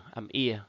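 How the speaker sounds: "ia" said as ee-uh, as in idea; "ia" glide sound. Shown as a demonstration. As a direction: pronounce "ia" as ee gliding into uh. (đọc "ia" như cuối từ idea)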